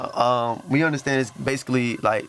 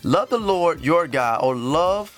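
emphatic scripture reading; 3 semitones higher than usual. Acted. Reads a commandment aloud.

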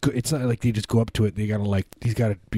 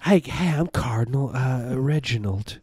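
higher-pitched fey Southern cardinal; fey Southern accent; 4 semitones higher than usual. Acted. A cardinal introducing himself, fey Southern accent. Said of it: "like, a fey Southern accent".

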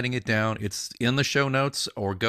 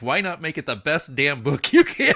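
louder, pitched-up passionate plea; soapbox rant; 5 semitones higher, 6 dB louder than usual. Real, not acted. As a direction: preach it like you're on a soapbox, urging writers. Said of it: "Let me climb off my soapbox now".

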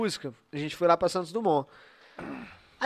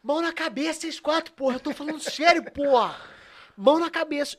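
mock cop command; 6 semitones higher than usual. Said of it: "ele com a mão aqui assim".

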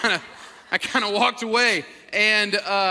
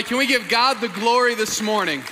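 fired up; 3 semitones higher, 5 dB louder than usual. Real, not acted. Pastor rallying church for Serve Day, fired-up shout. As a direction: pump up the whole crowd. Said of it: "I'm fired up. I'm pumped up".

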